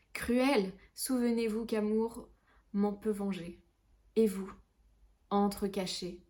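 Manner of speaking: lightly acted tragic verse reading; understated theatrical lament, pausing between phrases; dramatic poetry recitation. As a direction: recite a lover's lament with rising pleas. Recites a dramatic love poem.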